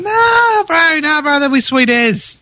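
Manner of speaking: lazy, high kiwi drawl, laughing; broad kiwi accent. Retold or imitated. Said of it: "they're like".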